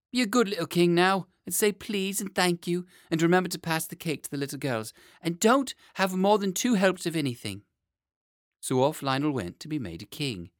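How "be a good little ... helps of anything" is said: put-on high, eager old nurse calling the boy; a fussy nurse fetching her charge, pitched high.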